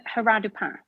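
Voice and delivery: Haras du Pin as 'a-ra du pan'; French pronunciation. Shown as a demonstration. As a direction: silent s, nasal French ending on Pin. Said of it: "if you have a French horse".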